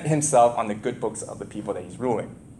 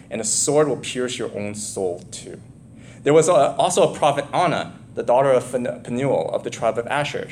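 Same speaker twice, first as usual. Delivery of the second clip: measured Bible reading voice; scripture reading. Acted. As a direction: read the passage like a preacher. Reads scripture aloud in a sermon.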